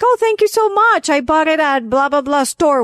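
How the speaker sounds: high, bright-eyed sweet reply; overly sweet high-pitched gratitude; sweet thank you. Retold or imitated. Sweetly answering a compliment.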